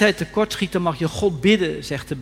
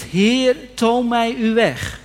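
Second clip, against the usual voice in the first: fervent prayer; 4 semitones higher, 5 dB louder, much slower than usual. Acted. Preacher voices a fervent prayer.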